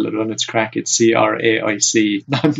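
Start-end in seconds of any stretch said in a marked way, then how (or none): 0.9-2.2 slow, letter-by-letter spelling. Shown as a demonstration. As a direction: spell C R A I C slowly, each letter separate. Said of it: "put it out there as well".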